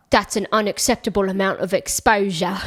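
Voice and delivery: badly faked Cockney, slightly exaggerated; terrible Cockney accent. Podcaster mocking the actor's really badly done Cockney accent. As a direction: do a clumsy put-on Cockney. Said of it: "he does this terrible accent".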